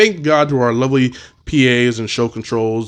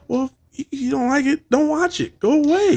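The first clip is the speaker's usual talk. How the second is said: high, mocking brush-off; dismissive sass; 14 semitones higher than usual. Fan telling offended guests to leave, sassy. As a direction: shoo them off.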